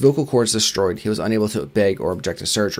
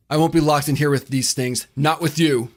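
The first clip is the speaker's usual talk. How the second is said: high, strained, panicked yell; screaming; 6 semitones higher than usual. Acted. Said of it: "he screamed at the man".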